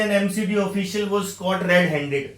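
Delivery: slow, careful reading of an example; slow example sentence. Shown as a demonstration. Teacher reads an example sentence aloud to students, slow and careful. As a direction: spell the example out slowly for the class. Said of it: "जैसे".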